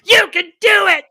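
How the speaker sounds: put-on high, loud little girl's shout. Six-year-old daughter cheering the batter, a high loud shout. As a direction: cheer him on at full voice like a child.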